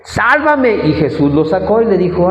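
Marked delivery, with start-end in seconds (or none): 0.0-0.9 mild, high mock yell; retold cry. Sinking Peter calling to Jesus, retold cry. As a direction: imitate a plea for rescue without shouting. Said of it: "al hundirse gritó".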